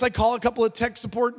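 ordinary talk, nothing marked

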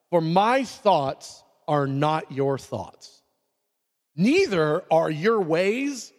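slow, measured Bible reading; scripture reading. Real, not acted. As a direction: read the verse slowly and solemnly.

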